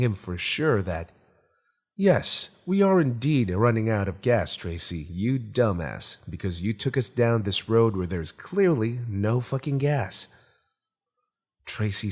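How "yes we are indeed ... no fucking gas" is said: sarcastic telling-off, a touch emphatic; mock scolding. The car mockingly scolds Tracy for taking the wrong road, lightly sarcastic.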